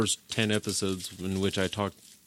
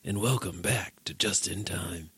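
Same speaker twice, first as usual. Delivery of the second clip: lower, slow deep Mexican-tinged podcast intro; a touch of a deep cheesy podcast host; deep radio voice; 3 semitones lower, slower than usual. Shown as a demonstration. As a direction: drop deep and slow for the intro, lightly done. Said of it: "start doing the podcast like".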